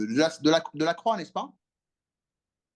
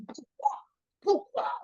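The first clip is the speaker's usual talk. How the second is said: anguished Jesus; 13 semitones higher, slower than usual. Acted. Preacher voicing Jesus on cross.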